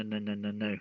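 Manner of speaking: usual speaking voice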